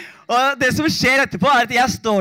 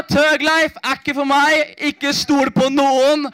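slow, drawn-out life lesson; a slow, mock-wise closing motto; mock solemn moral; 3 semitones higher, slower than usual. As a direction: hand down the lesson slowly like wisdom.

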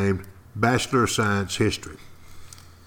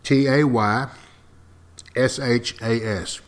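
spelled out. Shown as a demonstration. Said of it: "I'm gonna spell it for you".

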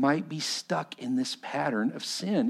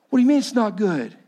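indignant Moses; 9 semitones higher, 8 dB louder, faster than usual. Acted. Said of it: "Moses bowed".

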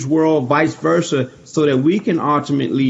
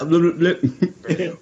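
limit said slowly, syllable by syllable; slow careful practice; 3 dB quieter, slower than usual. Retold or imitated. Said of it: "when we're practicing".

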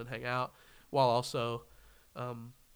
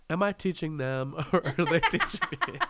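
mock pretentious; 3 semitones higher, 5 dB louder than usual. Repeats the mocked pretentious line.

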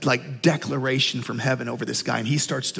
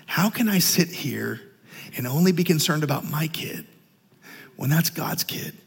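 compassionate; 3 dB quieter than usual. Retold or imitated. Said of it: "just overwhelmed with, with compassion".

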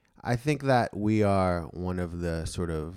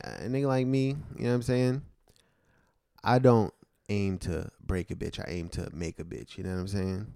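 pimp voice. Acted. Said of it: "this is his pimp voice".

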